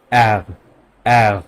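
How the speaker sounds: "অ্যার" with the R from deep in the throat; throaty German R. Shown as a demonstration. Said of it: "এটা একদম গলার throat থেকে". ("অ্যার" গলার ভিতর থেকে জার্মান উচ্চারণে)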